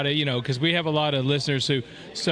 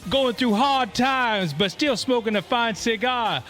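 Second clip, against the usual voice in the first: Ric Flair impression; 4 semitones higher than usual. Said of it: "Ric Flair".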